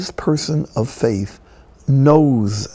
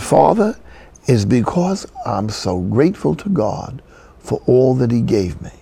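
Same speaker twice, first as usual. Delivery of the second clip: put-on old-fashioned Southern Afro-American accent. Old lady answers the priest who asked about her happiness, Southern Afro-American accent. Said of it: "this is an old-fashioned Southern Afro-American accent".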